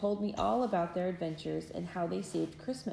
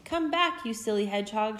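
much higher, louder call after the hedgehog; girl calling after the silly hedgehog; 4 semitones higher, 5 dB louder than usual. Acted. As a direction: call out after him across the yard. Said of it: "she called".

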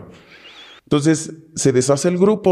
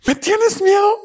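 taunting captor. Retold or imitated. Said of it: "Y le dice".

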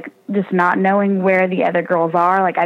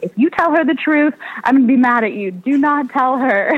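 higher, mock-stern mom warning; 6 semitones higher than usual. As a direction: lightly act the mom laying down the law. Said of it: "My mom's like".

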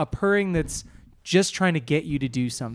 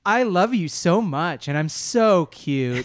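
sweet pleading cat; 4 semitones higher, 3 dB louder than usual. Retold or imitated. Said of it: "that's what Marv's trying to do".

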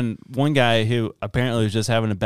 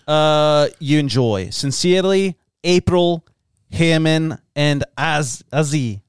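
put-on Hawaiian accent; 2 semitones higher than usual. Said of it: "That was really good".

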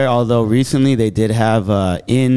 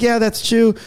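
high-pitched impression of a teen; heckler's friend; 10 semitones higher than usual. Comic voices the teen heckler's friend backing her up, mock teen. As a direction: pipe up as the teen's friend. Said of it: "her friend was like".

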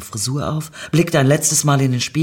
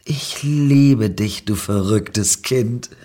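tender; 4 dB louder, much slower than usual. Acted. Slow tender.

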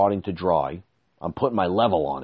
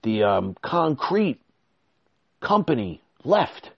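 higher, fast mock-urgent worker; imitating the contractor; 5 semitones higher than usual. Contractor telling him the truck left, higher mock-alarmed voice. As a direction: break bad news in a rush. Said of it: "he says".

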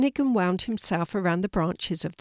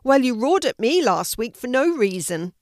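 high, loud animal complaint; indignant zebra; 6 semitones higher, 5 dB louder than usual. A narrator's reading. Zebra accusing the lion of roaring, indignant. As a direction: protest loudly with swooping pitch.

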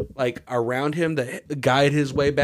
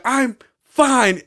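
much higher, louder mock protest; exasperated, pitched way up; imitated angry insistence; 10 semitones higher, 6 dB louder than usual. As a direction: imitate a drunk at peak irritation. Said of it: "he's getting mad".

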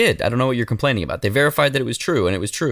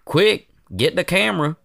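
fake wholesome; 3 semitones higher than usual. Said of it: "They all kinda have that vibe".

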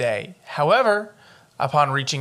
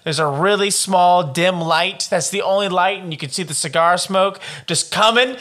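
building higher and louder as the fantasy grows; getting into it; 5 semitones higher, 4 dB louder than usual. Pretend. Dreaming up their detective office for the cohost, growing excited and loud. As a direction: paint the noir office with rising excitement. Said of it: "I'm getting really into this".

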